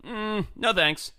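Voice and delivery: high, slow, drawn-out no thanks; dismissive refusal. Retold or imitated. Turning down a small-town reporter, slow and dismissive. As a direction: wave them off lazily.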